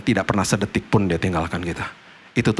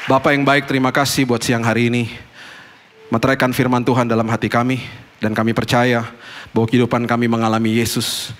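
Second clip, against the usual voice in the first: prayer. Acted. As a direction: pray aloud over the congregation. Leads closing prayer.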